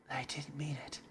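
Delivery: unvoiced shy whisper. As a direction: whisper the apology timidly. Yuri whispers apology.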